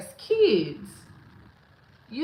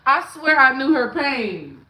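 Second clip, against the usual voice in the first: much louder swear; loud emphatic claim; loud insistence; 4 semitones higher, 9 dB louder than usual. Real, not acted. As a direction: push it out loud.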